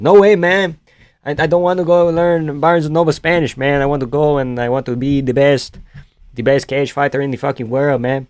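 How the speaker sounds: mock Latino accent, lightly done; put-on Latino accent. Streamer refusing to learn Spanish from books, mock Latino accent.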